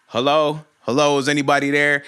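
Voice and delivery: mock yell into someone's car; retold screaming. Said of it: "starts screaming through the dude's car".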